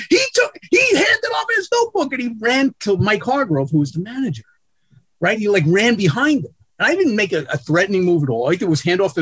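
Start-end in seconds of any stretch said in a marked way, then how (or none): 0.1-3.7 high, half-mocking shrill voice while telling it; lightly shrill retelling. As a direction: lightly keep the squeaky voice going. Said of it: "screaming in this high, shrill voice".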